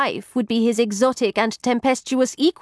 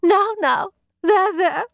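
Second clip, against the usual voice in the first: high-pitched comforting; soothing; 11 semitones higher than usual. A narrator's reading. Maid consoling her weeping companion, soothing. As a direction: hush a weeping friend.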